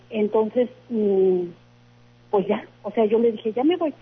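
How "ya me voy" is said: higher-pitched, mildly annoyed retort; a touch of impatience; retold annoyance. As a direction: imitate an irritated goodbye, pitched up. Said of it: "de esas veces hasta como molesta".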